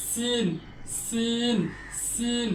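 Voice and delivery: সিন with a clear hiss; modelled সিন said slowly; tajweed letter demo. Shown as a demonstration. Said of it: "এভাবে উচ্চারণ করতে হবে". (সিন শিস দিয়ে উচ্চারণ)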